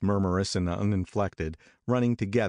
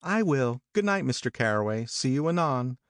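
put-on higher young woman asking a favour; Jordan voiced higher; 6 semitones higher than usual. A narrator's reading. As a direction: Jordan asking Daisy to wake her, higher.

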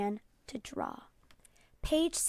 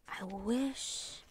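wistful; 10 dB quieter than usual. A narrator's reading. Boy alone, longing.

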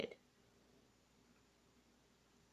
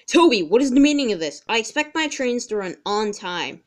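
louder stern scolding question; annoyed boss; 4 dB louder than usual. Acted. Sir Topham Hatt scolding Toby for being late, louder and stern. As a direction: demand an answer from a late engine. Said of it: "Sir Topham Hatt was very annoyed".

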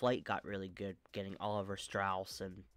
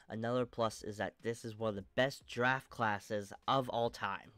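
blocked nose, a bit monotone; talking through a stuffy nose; 3 dB louder than usual. Real, not acted. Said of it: "I'm a little stuffy".

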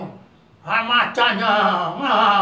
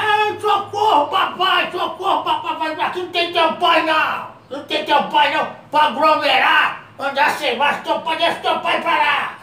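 virus screaming for help; 3 semitones higher than usual. Retold or imitated. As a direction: play the virus yelling for help, hammed-up. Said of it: "ele gritava de lá".

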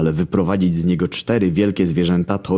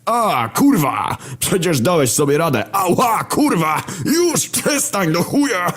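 high, squealing, drawn-out protests; pained yelling; 13 semitones higher, slower than usual. A narrator's reading. War getting kicked in the ribs, yelling. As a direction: howl and beg for it to stop. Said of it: "zaczął się drzeć".

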